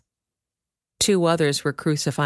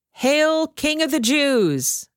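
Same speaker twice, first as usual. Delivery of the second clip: high, slow, jeering cry; mocking hail; 10 semitones higher, much slower than usual. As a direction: sneer it out like soldiers taunting a prisoner. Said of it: "they mocked".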